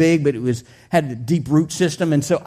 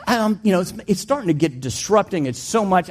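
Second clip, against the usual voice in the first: ordinary delivery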